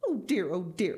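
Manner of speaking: a touch of despair; dismayed cry. Acted. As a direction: fret aloud in dismay. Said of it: "cried Missus Gregg".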